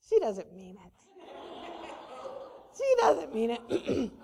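low, slow dog's aside; unconvinced dog. Acted. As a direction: voice a doubting dog under the breath. Voicing her unconvinced dogs.

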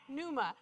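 "Pneuma" as NOO-muh, said softly; silent P. Shown as a demonstration. Repeating the right Greek for learners, "Pneuma" with silent P. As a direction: start "Pneuma" straight on the N. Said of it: "It's pneuma".

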